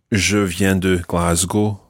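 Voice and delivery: Glasgow said the English way, GLAZ-goh; slow English-sounding Glasgow; Scottish English Glasgow. Shown as a demonstration. Teacher contrasts the English way of saying Glasgow.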